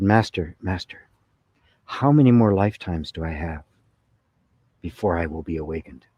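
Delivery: a hint of a solemn, disciplined monk; lightly voiced earnest seeker, measured and restrained; stoic monk. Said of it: "a very stoic and, and disciplined".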